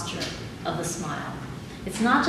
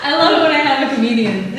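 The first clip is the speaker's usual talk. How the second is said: laughing; 5 semitones higher, 7 dB louder, faster than usual. Real, not acted. Laughing at a joke from the audience.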